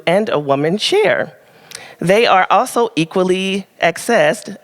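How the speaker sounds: measured, deliberate reading to an audience; read-aloud prepared piece. Real, not acted. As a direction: read it out with careful phrasing. Reads prepared advice aloud.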